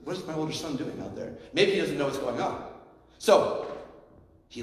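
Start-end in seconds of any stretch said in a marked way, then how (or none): 0.0-1.3 quiet father. Retold or imitated. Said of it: "he looks outside and he sees this".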